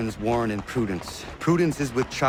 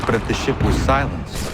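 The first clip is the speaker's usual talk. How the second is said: loud, raised question; shouted suggestion; 7 dB louder than usual. Acted. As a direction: call it over the gunfire. Over battle noise.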